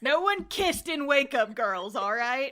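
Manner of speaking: laughing, loud insistence. Real, not acted. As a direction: push it through laughter.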